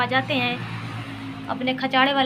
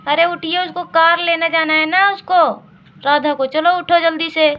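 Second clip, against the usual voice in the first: lightly raised nagging wife voice; mother waking father; 4 semitones higher, 5 dB louder than usual. Acted. Wife nagging sleepy husband to get up for the car, lightly higher. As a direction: hurry him out of bed, a bit higher.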